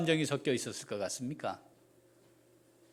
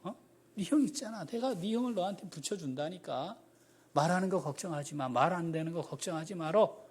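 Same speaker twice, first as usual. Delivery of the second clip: soft, gentle reassurance; a hint of a patient father comforting; God softly reassuring Moses; calm God; 4 dB quieter than usual. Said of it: "하나님 차분하게 또 말씀하세요".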